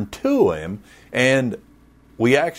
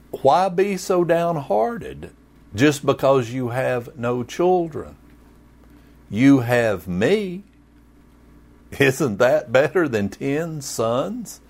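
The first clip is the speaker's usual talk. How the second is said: clueless husband Elkanah; 4 semitones higher than usual. Retold or imitated. Pastor voicing Elkanah to crying Hannah, mock clueless husband. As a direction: play him as a well-meaning dimwit consoling his wife. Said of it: "I'm being Elkanah".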